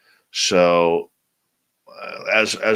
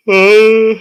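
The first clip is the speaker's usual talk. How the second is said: yawn; 14 dB louder than usual. Real, not acted. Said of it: "I apologize for the yawning".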